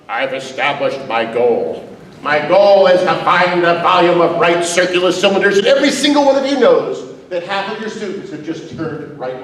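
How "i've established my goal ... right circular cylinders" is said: droning teacher. Pretend. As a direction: read the goal like a bored teacher. Mock teacher stating goal.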